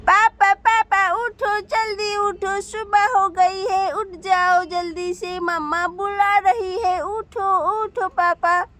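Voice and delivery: lightly voiced little boy, slow and pleading; child waking dad. Little son nagging his sleeping father to get up. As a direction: drag the words out like a kid nagging a sleepy dad.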